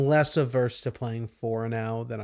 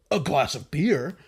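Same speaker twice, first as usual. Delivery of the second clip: terrible Snake voice. Retold or imitated. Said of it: "terrible Snake voice".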